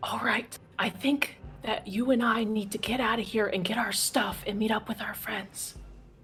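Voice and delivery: in-character whisper. Leaning over to whisper to a companion at the table: in-character whisper. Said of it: "I wanna whisper".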